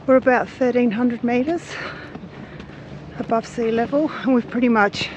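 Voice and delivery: breathless after the climb; puffing between phrases; out of breath. Real, not acted. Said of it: "let me catch my breath".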